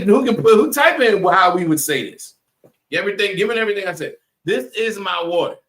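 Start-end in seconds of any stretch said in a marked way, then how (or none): 4.4-5.6 higher-pitched, with "is" fully sounded; standard English. Shown as a demonstration. Quizzing the class on unnatural phrasing, "is" carefully pronounced. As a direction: pitch it up and keep "is" a separate word. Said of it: "That's not how we would say it".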